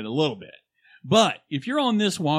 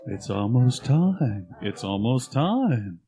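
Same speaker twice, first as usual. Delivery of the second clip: slow creepy ad voice; 3 semitones lower, slower than usual. Acted. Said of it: "as the Silver Shamrock guy".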